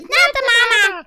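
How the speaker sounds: put-on high shouted puppet baby voice; Not the Mama baby voice. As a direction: belt it like the Dinosaurs baby. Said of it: "It looks like it's like".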